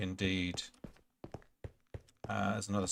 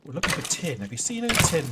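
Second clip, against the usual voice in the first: calling out; 6 semitones higher, 6 dB louder, faster than usual. Pretend. Calling out to skeleton mobs.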